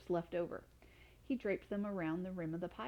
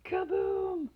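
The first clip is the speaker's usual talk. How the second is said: big higher louder kaboom; loud boom; 12 semitones higher, 6 dB louder than usual. A narrator's reading. Narrator booms out the potion blast, loud. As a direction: burst out the explosion word.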